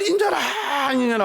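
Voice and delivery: mock child crying. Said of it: "하고 이 아이가 울었던 거예요".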